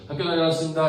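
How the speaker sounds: loud, high schoolkid call; child's homecoming greeting. Acted. Child coming home from school to mom, loud high greeting.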